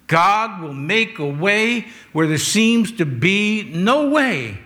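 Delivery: slow, drawn-out declaration; measured, believing proclamation; with conviction. Shown as a demonstration. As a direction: stretch each phrase with firm belief. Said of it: "sing that with conviction, believing it".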